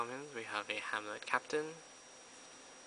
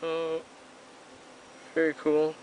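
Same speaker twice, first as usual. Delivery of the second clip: excited; 5 semitones higher, 8 dB louder than usual. Real, not acted. Reacting to pulled card.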